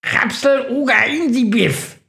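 high crowing bird voice; Günther the crow cutting in with a crow call. Acted. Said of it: "kräht Günther dazwischen".

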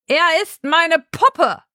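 slow, high, menacing proclamation; villainous reveal. Acted. Adelend stepping in to claim Charlie, gloating slowly.

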